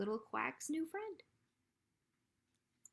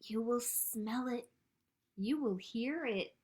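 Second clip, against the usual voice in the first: measured read-aloud with deliberate pauses; picture-book reading; 4 semitones higher than usual. A narrator's reading. Librarian reads a spring book to children, measured storytime delivery. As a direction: read it out for small children, letting each line land.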